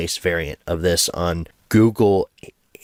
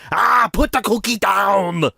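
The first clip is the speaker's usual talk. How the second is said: hammed-up high, drawn-out yell; movie-line shout; 12 semitones higher than usual. Parent ordering child off the cookie, mock furious shout. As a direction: bellow it slowly as an over-the-top order.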